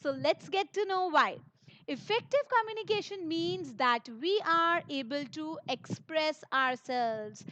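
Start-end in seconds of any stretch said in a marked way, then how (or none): 5.7-7.4 "express ourselves" drawn out slowly; emphasized phrase. Real, not acted. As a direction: stress "express ourselves" by slowing right down. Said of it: "please emphasize the word express ourselves".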